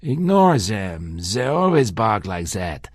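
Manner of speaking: Ignore zem with z for the th, slow; a hint of German accent on them and that. Shown as a demonstration. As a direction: say zem and zat, German th sounds. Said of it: "Them. They, the, the, that".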